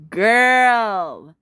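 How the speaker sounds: loud, long drawn-out exclamation; sassy hype. Real, not acted. Fan raving about a singer's opera singing, sassy hype. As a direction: stretch it out in mock-diva awe.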